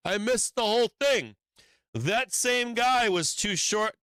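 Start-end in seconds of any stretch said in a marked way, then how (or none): 0.1-1.4 higher, excited mock of a latecomer; mocking FOMO trader. Trader mocking the buyer who missed the move, higher and excited. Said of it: "you're the asshole going".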